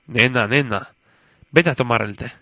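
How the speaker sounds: understated fatherly impatience; a touch of weary annoyance; mildly annoyed. Acted. Judge sends his daughter to tea, mildly annoyed. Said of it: "con fastidio".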